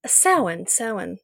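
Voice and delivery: Samhain said as SOW-in; pagan church's pronunciation. Shown as a demonstration. Former church member shows their pronunciation, Samhain as SOW-in. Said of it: "is how they pronounce it".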